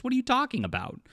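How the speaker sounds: high-pitched disbelieving question; incredulous. Real, not acted. Answering the claim it's fine, a high incredulous question. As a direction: throw it back in disbelief.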